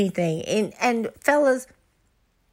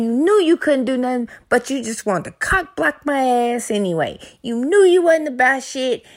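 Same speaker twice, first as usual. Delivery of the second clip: building into a louder, accusing tirade; mock angry rant; 2 semitones higher, 3 dB louder than usual. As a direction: pretend to chew out a useless partner, getting louder. Acted rant at a disappointing lover.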